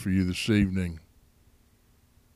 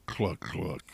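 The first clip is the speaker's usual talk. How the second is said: a light mock hen cluck; chicken clucks; 2 semitones higher, 3 dB quieter than usual. Host playfully clucking like a chicken after the story. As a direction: cluck like a hen, just for fun.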